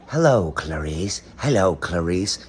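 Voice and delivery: slow, a touch low, lightly voiced villain; a lighter retake of the creepy greeting; Hannibal Lecter impression. Slowly quoting the film line to viewers, lightly creepy. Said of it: "you guys remember it too".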